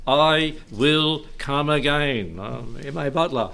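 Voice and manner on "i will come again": very slow, deliberate verse; slow, solemn-paced proclamation in own accent; emphatic recitation. Acted. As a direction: draw out each word with weight. Recites verse before imitating preacher.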